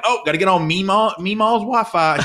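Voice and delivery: sing-song ribbing of mom, laughing; teasing mom. Retold or imitated. Teasing his mom about her neighbor's Wi-Fi, high and laughing. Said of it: "And so I'm like".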